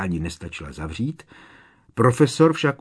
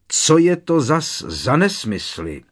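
slow booming scold, higher and louder; thundering; 7 semitones higher, 7 dB louder than usual. Acted. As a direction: thunder it down at the boy. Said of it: "hřímal Snape".

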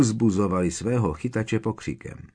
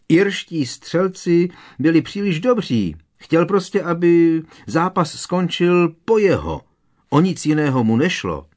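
shouting over crowd; 7 semitones higher, 4 dB louder than usual. A narrator's reading. Harry still shouting over crowd.

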